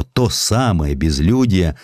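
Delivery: ordinary delivery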